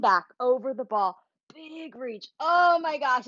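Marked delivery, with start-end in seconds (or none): 2.4-3.3 delighted gasp. Real, not acted. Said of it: "it feels so good".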